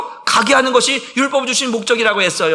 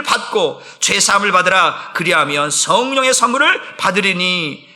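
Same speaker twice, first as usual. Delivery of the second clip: scripture reading. Acted. Pastor reading Acts with the congregation, in a measured recitation. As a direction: read the verse together with the church. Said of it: "같이 읽어봅니다".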